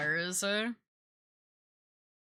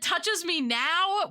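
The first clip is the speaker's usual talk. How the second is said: owl voice; 8 semitones higher, slower than usual. Retold or imitated. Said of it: "He said".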